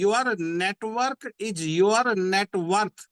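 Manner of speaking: each word of your network is your net worth drawn out very slowly; slow, weighty motto delivery; slow emphatic slogan. Shown as a demonstration. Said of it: "इस line को पकड़ के चलिए".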